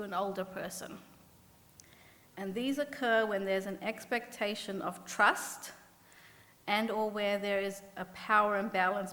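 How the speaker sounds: measured read-aloud with pauses between phrases; slow reading. Real, not acted. Researcher reads a definition slowly to the audience, slow reading. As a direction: read it out deliberately, pausing at each clause. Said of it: "I'll just read it, uh, slowly".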